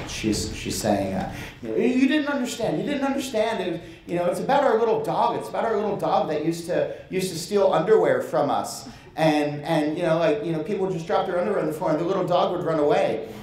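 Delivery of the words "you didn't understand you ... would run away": high mock tearful pleading; a hammed-up teary wife pleading; retold crying. Imitating the crying co-owner defending the name, mock tearful. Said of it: "and she's crying".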